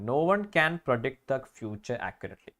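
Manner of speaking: slow, deliberate test sentence; slow reading aloud. Shown as a demonstration. Teacher reading a grammar question to the class, slowly. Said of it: "rereads exam sentence".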